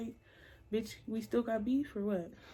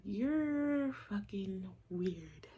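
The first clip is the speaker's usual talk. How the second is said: slow, breathy whisper; much slower than usual. Retold or imitated. Whispering to the guy that he's weird.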